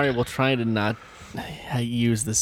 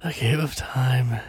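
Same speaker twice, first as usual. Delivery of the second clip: whispered title; slower than usual. Acted. Show title whispered at opening.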